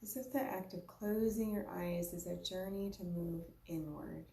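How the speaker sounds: unhurried meditation guide, long pauses between phrases; guided meditation. Real, not acted. Yoga teacher guiding listeners to observe their breath, unhurried guided meditation. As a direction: lead a breathing practice in short, spaced-out invitations.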